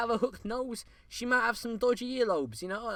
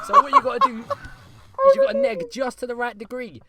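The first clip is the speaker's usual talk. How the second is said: hammed-up shout; 11 dB louder than usual. Mock guru advice shouted.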